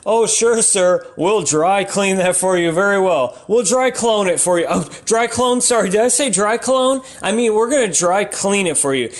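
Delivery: mock shop clerk. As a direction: play an overly eager dry cleaning clerk covering a slip. Comic plays a dry cleaner clerk.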